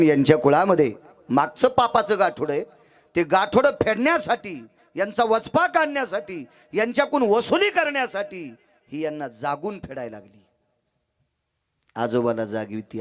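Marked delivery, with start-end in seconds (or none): 3.2-10.4 high, rolling list of reasons; fervent preaching. Acted. Preacher explaining the family's debt of sin, fervent. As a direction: build each clause upward, then come down.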